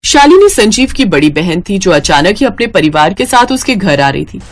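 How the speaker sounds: calm storyteller's narration; story narration. A narrator's reading. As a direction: narrate the family gently, like a tale. Narrator introduces the sister. (कहानी सुनाने वाला अंदाज़)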